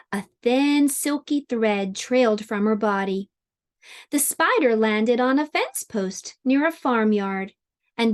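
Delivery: measured picture-book reading; story time narration. A narrator's reading. Teacher reads a spider story to children, storytelling voice. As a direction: read it aloud as to young children.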